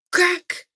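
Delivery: sudden loud high crack; slap sound. A narrator's reading. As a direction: snap it out like a slap. Narrating the slap.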